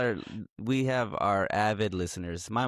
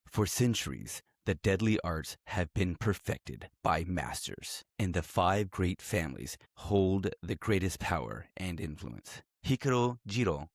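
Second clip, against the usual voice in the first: movie trailer voice. Acted. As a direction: read it like a dramatic movie trailer. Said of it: "Let me put on my, my movie voice".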